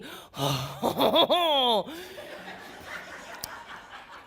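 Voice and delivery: long drawn-out "ho" with laughter; swooning reaction. Acted. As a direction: swoon aloud at his accent. Reacts to the man's French accent.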